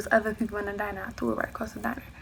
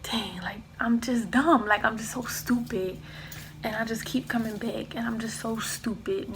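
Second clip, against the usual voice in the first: whispering. Retold or imitated. Crying in back seat.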